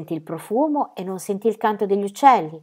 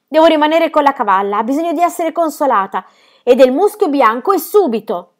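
loud, higher insistent orders; urgent shout; 6 semitones higher, 8 dB louder than usual. Acted. Ronia insisting to Birk, loud urgent shout. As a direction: drive him off with urgency.

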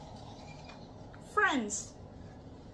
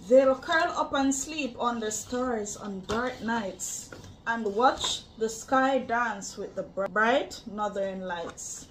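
put-on reading to children; 3 semitones lower than usual. Reading picture book aloud.

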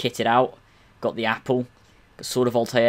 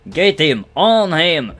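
higher, loud battle yell; shouted attack orders; 6 semitones higher, 7 dB louder, much slower than usual. Pretend. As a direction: shout it like urging fighters on. Yelling orders during a game fight.

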